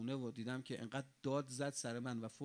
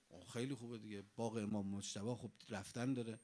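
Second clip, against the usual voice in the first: eager companions; 6 semitones lower, 5 dB quieter than usual. Retold or imitated. Companions eagerly accept invitation.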